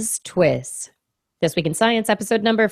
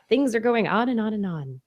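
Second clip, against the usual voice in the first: normal talking voice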